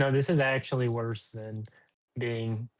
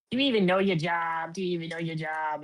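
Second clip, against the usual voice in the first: put-on high, scolding old lady; old woman voice; 4 semitones higher than usual. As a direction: nag like a rude old customer. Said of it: "she's like".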